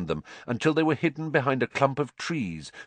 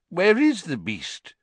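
higher, slow, indignant reedy official; 8 semitones higher, 3 dB louder than usual. A narrator's reading. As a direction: demand it in a thin, reedy voice. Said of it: "said the reedy voice".

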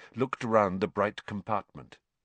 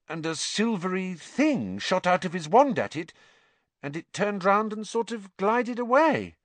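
a hint of an eager girl, higher and quick; lightly voiced Hermione; 5 semitones higher than usual. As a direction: tell it breathlessly as the young witch. Hermione retells the encounter.

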